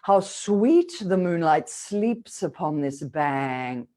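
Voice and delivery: slow, drawn-out verse line; air kept to the end. Shown as a demonstration. Coach models a Shakespeare line for students, slow sustained breath. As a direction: carry the breath through to the final K. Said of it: "It's just no good. We can't have it".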